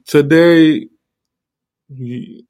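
talking around a sore tooth; careful speech through tooth pain; toothache. Real, not acted. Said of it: "I actually might sound, like, a little different".

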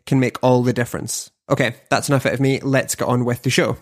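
polished presenter read, steady and clear; podcast host intro. Acted.

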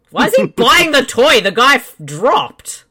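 laughing. Real, not acted. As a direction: laugh through the question. Repeat laughing louder.

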